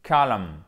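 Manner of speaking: "column" as KOH-lun, low falling tune; diphthong O. Shown as a demonstration. Teacher repeats the word for deux points, O diphthong. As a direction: stress the gliding O in "column". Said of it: "C'est un E qui va sur un O".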